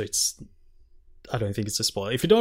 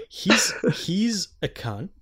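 getting angry; 7 semitones higher, 5 dB louder, slower than usual. Real, not acted. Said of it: "I'm getting really angry about this".

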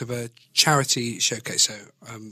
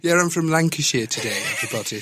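jokey Lancashire voice, pitched up; playful, higher Lancashire lilt; put-on Lancashire accent; 3 semitones higher, faster than usual. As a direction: claim to be northern in a Lancashire accent. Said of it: "I've done a northern accent".

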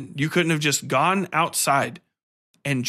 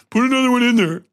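mock editor voice; 8 semitones higher, 5 dB louder, faster than usual. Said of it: "someone's like".

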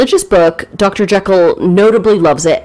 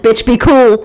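Samuel L. Jackson impression; 3 semitones higher, 3 dB louder than usual. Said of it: "he turned into Samuel L. Jackson".

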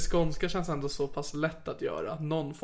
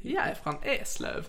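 slow, higher, badly faked Scanian accent; skånska attempt; 8 semitones higher, slower than usual. Shown as a demonstration. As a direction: demonstrate Scanian Swedish, uncertainly. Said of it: "jag kan ju inte heller skånska". (långsam, dåligt härmad skånska)

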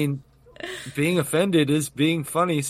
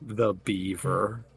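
voice changer; 10 semitones lower, 7 dB quieter, slower than usual. Pretend. Voice mod low voice.

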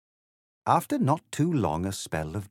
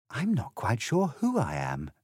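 lightly voiced puzzled girl, higher pitch; a hint of a bewildered Alice; unsure Alice; 4 semitones higher than usual.

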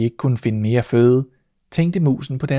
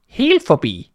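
high, louder shocked repeat of the name; mouse cries out; 7 semitones higher, 5 dB louder, slower than usual. Acted. Mouse stunned by the name, crying it out high. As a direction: shriek it back in disbelief. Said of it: "råbte musen".

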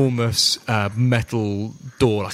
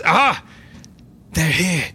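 stock pirate voice; 4 semitones higher than usual. Acted. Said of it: "give a stock pirate voice to".

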